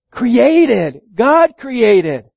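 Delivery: CREATED said forcefully, then repeated after God; strong weight on "created" both times; stress on CREATED. Shown as a demonstration. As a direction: drive home the word created. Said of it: "put your emphasis on the second word".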